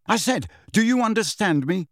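insistent snarled demand; snarling. A narrator's reading. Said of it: "Harry snarled".

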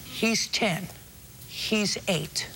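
pointedly slow, separated simple statements; short measured phrases for a slow listener. Real, not acted. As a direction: spell it out slowly with pauses. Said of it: "let me try to explain it to you slower".

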